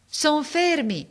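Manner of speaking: high, slow, carrying reply; calling back. A narrator's reading. Boy reports from the tree, calling. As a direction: draw it out from up high.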